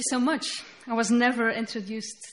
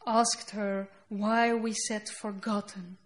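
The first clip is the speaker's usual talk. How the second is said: poem reading. Acted. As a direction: let each line land, then pause. Reads her poem aloud.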